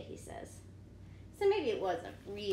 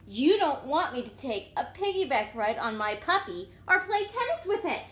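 louder complaining pigeon; whiny pigeon; 5 dB louder than usual. Acted. Pigeon grumbling at the reader, whiny. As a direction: complain with a pout.

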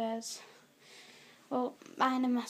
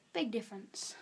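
whisper; 2 semitones lower, 6 dB quieter than usual. Real, not acted. Comparing height with teddy.

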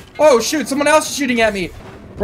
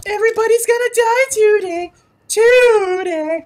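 mock villain threat; 11 semitones higher than usual. Playful threat entering the match.

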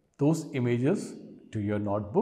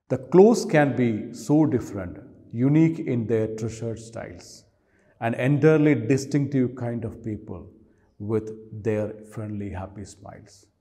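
poem reading; 6 dB louder than usual. Acted. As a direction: recite verse, each line starting loud and falling away. Reads the poem aloud.

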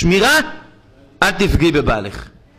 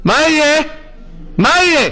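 anguished outcry; 10 semitones higher than usual. Real, not acted. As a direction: wail the question at the crowd. Rabbi crying out question.

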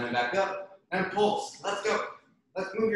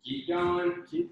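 excited high coaching call; 14 semitones higher, slower than usual. Real, not acted. Coach urging class on.

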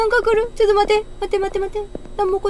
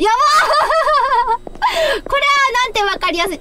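laughing; 4 semitones higher, slower than usual. Real, not acted. Laughs at repeated posters.

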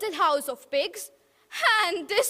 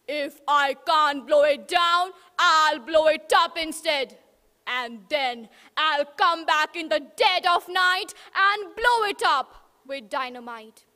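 louder, threatening wolf; scheming wolf; 5 dB louder than usual. Acted. Wolf threatening to blow the house up, louder. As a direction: growl out the plan.

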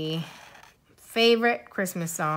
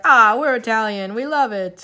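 louder, higher proud declaration; proud family cheer; 3 semitones higher, 10 dB louder than usual. Retold or imitated. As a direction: proclaim your family's Italian pride. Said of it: "because we're like".

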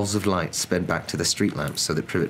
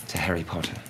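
softer, reverent murmur; hushed toast; 7 dB quieter than usual. A narrator's reading. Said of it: "saying in hushed voices".

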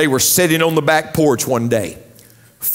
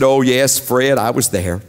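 lightly voiced wife; 4 semitones lower than usual. Wife answers in joke.

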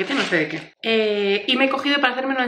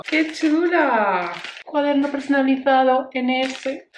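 excited; 4 semitones higher, slower than usual. Real, not acted. Gushing over a gift.

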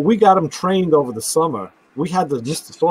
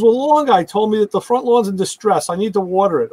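quoting wife; 5 semitones higher than usual. Retold or imitated. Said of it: "She goes".

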